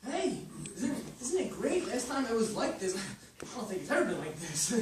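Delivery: excited. Acted. Son thrilled the place is packed.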